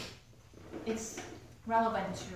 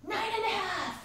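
stalling mom count; 10 semitones higher than usual. Retold or imitated. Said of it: "she goes".

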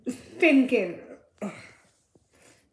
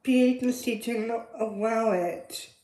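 quiet sad confession; 3 semitones lower, 7 dB quieter than usual. Acted. Mother admits losing custody.

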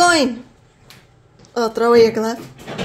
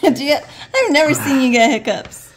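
fast, laughing question; 2 semitones higher, faster than usual. Real, not acted. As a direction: laugh while asking. Laughs at his hiccups.

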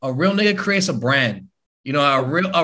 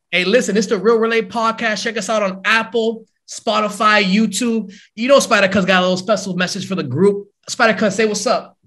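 podcast outro voice; 4 semitones higher than usual. Acted. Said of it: "give us like a little outro".

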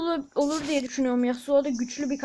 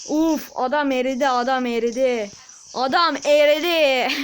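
excited; 5 dB louder than usual. Real, not acted. Excited gamer after kill.

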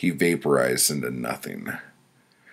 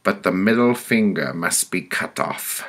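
stern pronouncement, pitched up; higher-voiced woman passing judgment; committee woman; 4 semitones higher, 3 dB louder than usual. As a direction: hand down the verdict as the judging woman. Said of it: "She continued".

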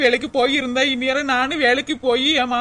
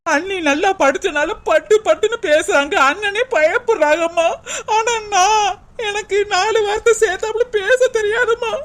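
higher, tearful sobbing voice; crying; 4 semitones higher than usual. Acted. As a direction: break down crying, pitch rising. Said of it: "first அழுகையை நிறுத்துடி".

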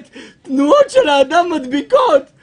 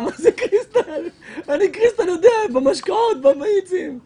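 laughing disbelief; 6 semitones higher than usual. Retold or imitated. Incredulous laughing reply.

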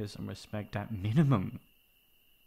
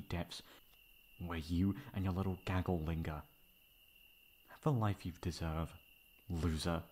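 cold menace; 3 semitones lower than usual. Acted. Threatening the ex.

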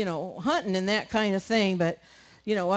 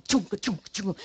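knife sound effect; faster than usual. Retold or imitated. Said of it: "He'd just go".

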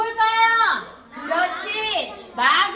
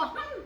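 short, high, soft huff; mock a child's offended humph; huffy snort; 6 semitones higher, 10 dB quieter, much slower than usual. Greedy child glaring at a friend, huffy little humph. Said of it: "친구랑 막 째려보고".

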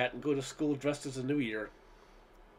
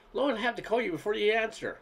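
mock shout; 7 semitones higher than usual. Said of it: "my mother would shout".

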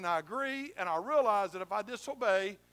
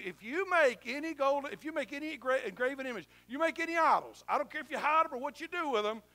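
raised, higher warning voice; stern Levite warning; 4 semitones higher, 4 dB louder than usual. Acted. Levite warning the people about idols, stern raised voice. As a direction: lay down the law to the people. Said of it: "And he's gonna say to you".

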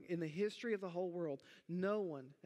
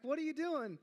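higher, louder mock-exasperated dad; upset question; 12 semitones higher, 6 dB louder than usual. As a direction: playfully scold the son. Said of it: "I was kind of upset".

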